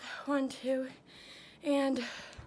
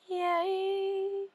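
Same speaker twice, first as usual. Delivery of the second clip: excited; 8 semitones higher than usual. Real, not acted.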